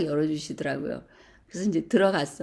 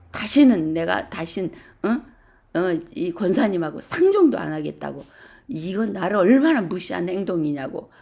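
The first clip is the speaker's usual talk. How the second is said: retold angry outburst; 4 dB louder than usual. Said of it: "그분이 언성이 높아지기 시작하면서".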